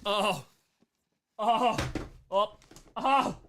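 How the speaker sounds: short rising volley of "oh"s; loud, high little bursts of awe; delighted discovery. Real, not acted. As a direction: exclaim at a wonderful gift. Opening gift box, delighted.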